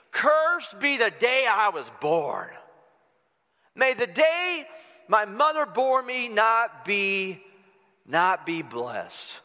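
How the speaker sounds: 1 slow lament. Acted. Reading Jeremiah's curse dramatically.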